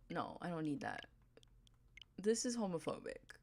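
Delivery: hushed whisper of fake scandal; breathy whispered joke accusation; whispered mock outrage. Real, not acted. Mock outrage at game villager.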